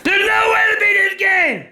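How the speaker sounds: angry shout. Real, not acted. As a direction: shout it in real frustration. Raging at the game.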